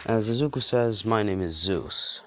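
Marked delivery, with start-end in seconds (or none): 1.0-2.2 grand god voice. Acted. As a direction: proclaim it like a mighty god. Zeus announces himself grandly.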